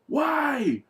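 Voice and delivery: high-pitched disbelief, rising into a drawn-out why; incredulous questioner. Retold or imitated. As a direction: act out a baffled, high-pitched demand. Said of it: "he said".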